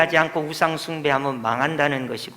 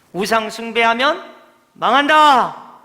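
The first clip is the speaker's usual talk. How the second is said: proclaiming warning; 4 semitones higher, 4 dB louder than usual. Retold or imitated. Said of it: "이렇게 계속 이야기한 거예요".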